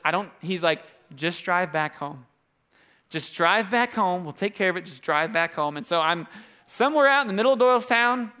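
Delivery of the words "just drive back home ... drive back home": steady the caller, unhurried; reassuring dad. Retold or imitated. Dad reassures his scared son.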